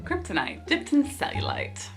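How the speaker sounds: put-on mangle a British-isles accent on purpose; unplaceable accent. Reviewer quoting the heroine in an unplaceable accent. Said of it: "I have no idea what accent I was doing there".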